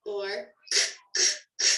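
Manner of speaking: "k, k, k" as short unvoiced bursts; bouncy sounds. Shown as a demonstration. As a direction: tap out each "k" short, no vowel. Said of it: "A bouncy sound is a sound that cannot be stretched".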